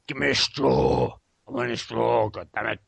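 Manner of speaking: lightly voiced grumpy Biff; a hint of a whiny Biff. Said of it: "I'll do my Biff impression".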